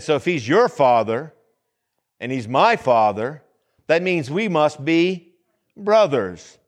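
measured preaching with drawn-out, weighted phrases; imitating preacher's delivery. Preacher retelling another's sermon on "Our Father", imitating his deliberate delivery. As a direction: imitate a preacher pausing before the punchline. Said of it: "he says it like that".

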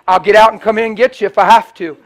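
loud, firm declaration; retold loud insistence. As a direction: plant your feet and refuse to go. Pastor insists on the girl.

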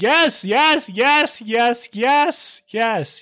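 rapid-fire high-pitched cheering, easing off at the end; eager agreement. Retold or imitated. Podcaster replaying his reply to a would-be friend, eagerly thrilled. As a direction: pile up excited high replies, gradually settling.

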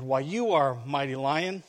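meekly appease the lion; a touch of timid monkey; terrified. Acted. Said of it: "terrified, the monkey answered".

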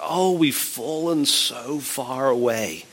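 slow, lightly voiced lament; a hint of tearful regret, drawn out slowly; mock weeping. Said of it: "they're just weeping because they're like".

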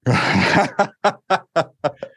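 high staccato chuckle; real amused laughter. Real, not acted. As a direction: burst into a high, rippling laugh. Amused by the repeated question.

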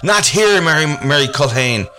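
high alarmed cry; creature crying out. Acted. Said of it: "the creature cried out".

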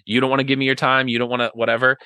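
mildly huffy, acted-out grievance; a touch of mock pettiness; petty. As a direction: play at being slighted, lightly. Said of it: "reaction is gonna be petty".

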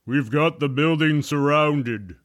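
lightly voiced official over a loudhailer; deep-voiced man. A hint of a deep-voiced man addressing the trapped pair. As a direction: announce it firmly. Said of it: "said a deep-voiced man".

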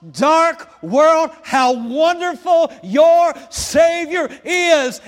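loud, high preaching at full force; fiery preaching. Acted. Pastor preaching to the church with full force. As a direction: preach it out over the congregation.

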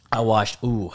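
wincing after a cold sip; ooh, pained by a cold slurp; sensitive teeth wincing. Real, not acted. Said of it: "That was a cold slurp, and my teeth are sensitive".

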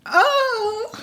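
ordinary talk

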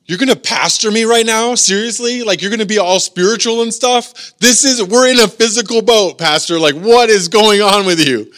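high, loud indignant questioning; acted-out exasperated passenger; incredulous protest. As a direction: challenge the pastor in disbelief. Acts an incredulous boat passenger.

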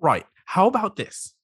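lightly voiced lonely crab; a hint of a needy crab; crab character voice.

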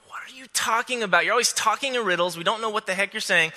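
a hint of annoyed disciple; lightly voiced frustration; frustrated. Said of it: "he's frustrated".

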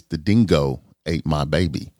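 loosely attempted Australian accent; half-convincing Australian accent; horrible Australian accent. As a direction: announce it in a bad Aussie accent. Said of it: "my horrible accent".

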